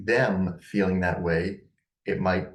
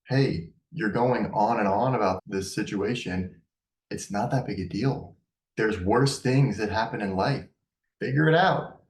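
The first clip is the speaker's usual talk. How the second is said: exasperated parent. Acted. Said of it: "Maybe you start feeling exasperated, impatient".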